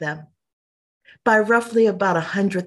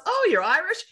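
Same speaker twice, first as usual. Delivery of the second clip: much higher imitated questioning voice; 12 semitones higher than usual. Homeowner to caller about being Irish, imitated high. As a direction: mimic the homeowner's rising, high-pitched question. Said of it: "she goes".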